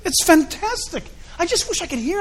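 laughing high and loud; delighted laughing aside. Real, not acted.

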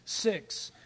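slow, breathless ominous whisper. Acted. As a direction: hush it out slowly, like a dark secret. Ominous opening of a sermon.

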